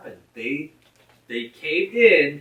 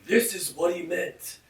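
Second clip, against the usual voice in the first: higher-pitched mock defensive voice; mock protest; 5 semitones higher, 5 dB louder than usual. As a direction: imitate an excuse-maker, raised voice. Mocks excuse-makers in acted quote.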